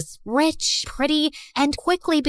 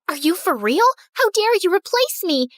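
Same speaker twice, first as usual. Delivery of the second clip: much higher, outraged cry; 7 semitones higher than usual. A narrator's reading. Jealous friend about to pounce, higher outrage. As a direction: shriek the betrayal at her. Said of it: "Lucy stomped over angrily".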